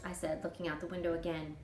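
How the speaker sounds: plain reading voice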